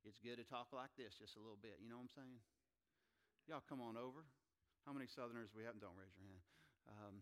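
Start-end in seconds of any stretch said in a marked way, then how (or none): 0.1-4.2 light, casual Southern accent. Shown as a demonstration. Preacher showing how to talk to a Southerner, Southern accent. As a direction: slip a little into a Southern accent. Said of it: "If you're talking to a Southerner".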